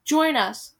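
desperate call. Acted. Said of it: "Gretel called desperately".

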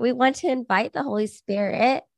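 hoarse from a cold; raspy sick voice. Real, not acted. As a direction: talk through a sore throat, raspy. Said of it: "You sound, like, raspy and sick".

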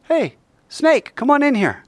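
high, sugary call; sweet hostess voice. Retold or imitated. Yael calling Sisera into the tent, sweetly. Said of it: "Yahweh is God says".

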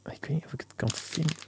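whispered to himself; breathy whisper while searching. Real, not acted. Searching the wrapper, muttering.

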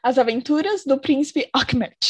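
put-on Ahmed in a jokey German accent. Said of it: "preparem-se para o sotaque alemão aqui".

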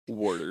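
Water as "worder"; local pronunciation. Shown as a demonstration. Co-host spells then says it, Water as "worder". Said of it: "W R D E R".

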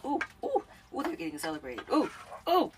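high, loud mock whoops; squealing mock celebration; mock cheering. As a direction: cheer in a hammed-up way for the kids.

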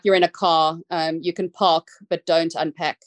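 put-on light South African accent on a saying; a hint of South African vowels, quoting sister. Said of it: "I'm gonna say it in my South African accent".

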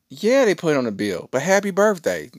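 high, loud retold concession; mock annoyance at the bill; exasperated dad. Retells grudging answer to daughter.

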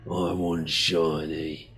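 a slow, low grunt of want; greedy creature. Acted. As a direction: drag it out like a greedy brute. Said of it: "He goes".

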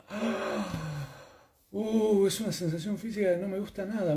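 high, breath-catching unease; mock squeamish high voice; acted discomfort. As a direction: act out a nasty sensation, high and quick. Acts out an unpleasant body sensation.

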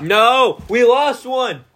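loud, high outcry of dismay; shocked cry. Real, not acted. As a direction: cry out in sudden alarm. Dismay over a lost snack.

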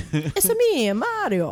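a light singsong Italian lilt; Mario. Acted. Echoing the game catchphrase, lightly voiced Italian character. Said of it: "Mario doesn't talk much either".

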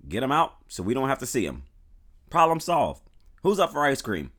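loud, high, breezy mock cheer; mock cheerful bigot. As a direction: wrap it up like it's nothing. Mocking the colonization idea.

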